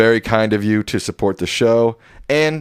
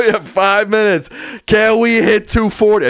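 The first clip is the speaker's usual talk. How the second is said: auctioneer call; 12 semitones higher, 4 dB louder than usual. Pretend. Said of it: "I feel like an auctioneer tonight".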